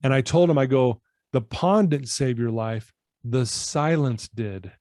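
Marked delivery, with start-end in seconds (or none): 1.3-4.7 slow, sincere. Retold or imitated. Closing lesson to client.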